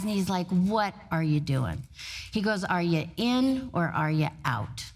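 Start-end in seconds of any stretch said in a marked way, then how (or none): 0.5-1.8 low, slow, stern challenge; stern confrontation. Retold or imitated. Mentor glaring at the CEO who does it all, stern and slow. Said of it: "glaring in my eyes". 2.6-4.8 low, slow imitation of a stern mentor; stern ultimatum. Mentor demanding the CEO make a choice, stern and low. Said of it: "he said it in that voice".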